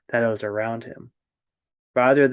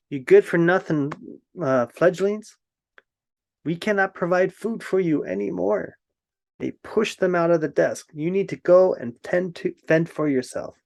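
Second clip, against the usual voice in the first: bickering ravens; 6 semitones higher than usual. A narrator's reading. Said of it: "these two ravens were bickering".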